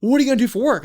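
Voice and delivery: high, loud acted bafflement; puzzled questioning. Shipmates asking about his plans, acted puzzlement. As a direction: imitate buddies struggling to understand. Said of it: "they're trying to justify in their head".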